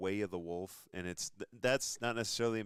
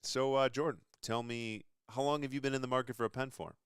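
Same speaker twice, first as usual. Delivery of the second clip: smooth salesman; 5 semitones higher than usual. Retold or imitated. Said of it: "you see his demeanor change, and he goes".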